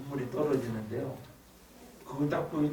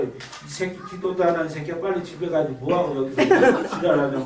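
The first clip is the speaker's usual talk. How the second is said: retold cursing; 3 semitones higher, 6 dB louder than usual. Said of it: "싹 욕을 하면서".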